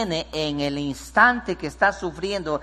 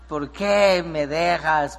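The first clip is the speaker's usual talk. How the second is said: put-on mumbling drunk; much slower than usual. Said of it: "él balbuceaba allí".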